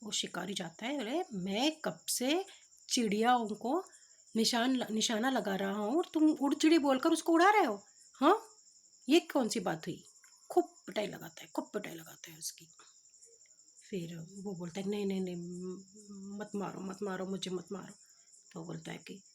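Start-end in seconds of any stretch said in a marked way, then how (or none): 1.0-10.0 indignant scolding, swelling louder into the question; storyteller acting out a cross hunter; angry hunter. Hunter confronts the man spoiling his aim, angry. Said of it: "उसको बहुत गुस्सा आता है". 14.9-17.9 meek pleading. Retold or imitated. Beaten simpleton begs the hunter to stop, meekly pleading.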